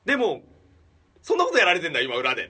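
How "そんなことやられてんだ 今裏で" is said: high, loud, breaking into laughter; laughing disbelief. Retold or imitated. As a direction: cry it out, laughing at the absurdity. Laughing at the secret plot. (笑いながら高く大きな声で)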